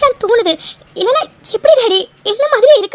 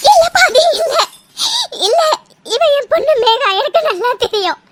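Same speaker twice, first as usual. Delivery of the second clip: crying. Acted. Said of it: "அழாதம்மா".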